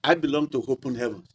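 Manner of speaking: low, offhand dismissal of other churches; dismissive church member. Acted. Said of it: "I should not just say".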